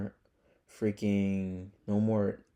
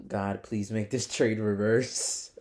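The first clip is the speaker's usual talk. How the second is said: slow, drawn-out mock plea to God; retold desperate prayer; 4 dB louder, slower than usual. Trader retelling his prayers over losing trades, pleading. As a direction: beg half-jokingly, stretching the words out. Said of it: "pray to God, be like".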